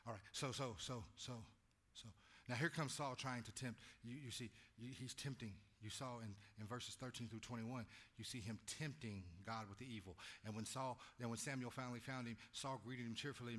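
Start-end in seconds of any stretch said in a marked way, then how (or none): none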